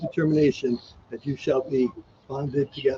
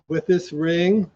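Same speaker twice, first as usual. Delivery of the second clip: slow, measured vow prompt; officiant's slow lead line; 3 semitones higher, slower than usual. Shown as a demonstration. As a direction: give each word weight for repeating. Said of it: "please repeat after me".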